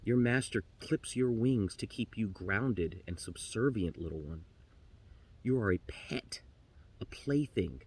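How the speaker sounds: low, soft, grave counsel; resigned raven. Acted. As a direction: give a quiet parting warning. Raven gives up, gently warns canary.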